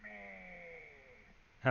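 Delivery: creepy acolyte voice. Acted. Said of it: "let's just get it done".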